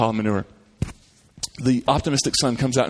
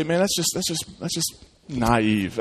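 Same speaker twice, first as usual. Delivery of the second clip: dismissive; 4 dB quieter, slower than usual. Retold or imitated. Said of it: "we would look at that and say".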